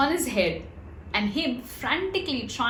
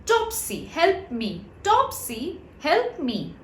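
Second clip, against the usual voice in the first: high call for help; 6 semitones higher, slower than usual. A narrator's reading. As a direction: call for help from under the jug. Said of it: "called out to Topsy".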